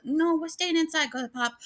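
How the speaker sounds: high, squeaky voice for the scared dog; dog's voice. Retold or imitated. Owner voicing her dog refusing to go outside, high squeaky voice. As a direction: speak for the timid dog in a high little voice. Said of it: "He's like".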